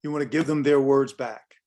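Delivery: their punched, words given back; stress on their. Shown as a demonstration. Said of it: "the emotion is up".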